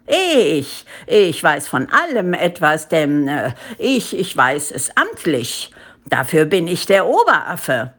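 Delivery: lightly voiced blustering official; self-important monkey boss; pompous head ape. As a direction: insist on your authority, stumbling for words.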